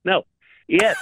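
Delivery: normal talking voice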